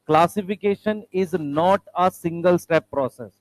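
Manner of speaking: slow, word-by-word English reading; careful dictation. Shown as a demonstration. Teacher tells students to listen to the words, slow careful dictation. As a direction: spell out each word deliberately for learners. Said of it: "word सुनो ध्यान से".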